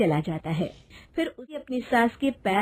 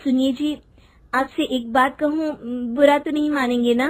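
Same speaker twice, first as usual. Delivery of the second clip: shy, hesitant wife asking a favour; 4 semitones higher than usual. Acted. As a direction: ask timidly, as if afraid of refusal. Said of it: "झिझकते हुए रमेश से कहती है".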